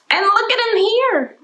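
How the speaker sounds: high whisper of delight; excited whisper. Shown as a demonstration. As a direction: whisper it like a secret reveal. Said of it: "teacher shows picture excitedly".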